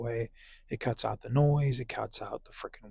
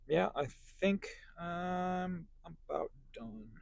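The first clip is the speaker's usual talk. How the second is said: whispering; 5 semitones higher, 7 dB quieter, slower than usual. Real, not acted. Winding down the video.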